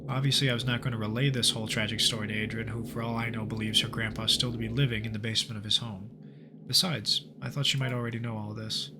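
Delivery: measured narrator reading the game's journal; story narration. Acted. Gamer narrating the journal to viewers, steady storyteller voice. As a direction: read it like an eerie case file. Reads game story text aloud.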